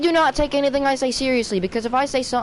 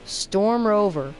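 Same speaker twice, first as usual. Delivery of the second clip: slow, even computer-voice delivery; automated voice; much slower than usual. Real, not acted. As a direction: read it like a voice assistant. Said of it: "I sound like Siri".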